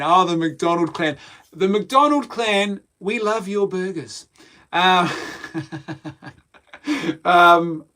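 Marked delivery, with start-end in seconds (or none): 1.5-4.3 slow, higher mock-Scottish salute; mock Scottish accent. Vlogger hailing the McDonald clan, mock Scottish accent. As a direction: draw it out in a playful Scottish voice.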